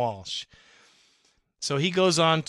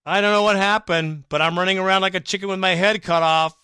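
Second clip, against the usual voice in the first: loud, higher, flustered outburst; loud frantic bewilderment, much higher; exasperated fan; 5 semitones higher, 7 dB louder than usual. Retold or imitated. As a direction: read it like a panicked fan yelling. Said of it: "here's Daniel and Chino".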